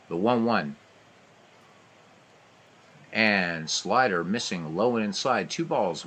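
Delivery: brisk radio ballgame call; live baseball commentary voice; play-by-play. Acted. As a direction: call every pitch like a radio announcer.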